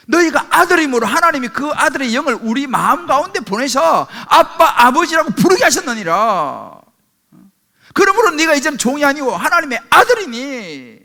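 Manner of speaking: emphatic, declaimed Bible verse; scripture reading. Real, not acted. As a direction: read the verse out firmly to the congregation. Reads scripture aloud to congregation. (힘주어 선포하는 성경 낭독)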